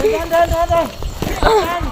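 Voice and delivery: while running. Real, not acted. Running downhill, urging care.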